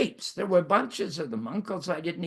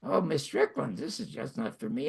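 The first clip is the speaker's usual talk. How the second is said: light impression of a quirky-voiced acting student; interesting voice; 2 semitones higher, 4 dB quieter than usual. Quitting student to his acting teacher, lightly imitated distinctive voice. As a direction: lightly imitate a classmate's distinctive voice, softer at the end. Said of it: "says in this interesting voice".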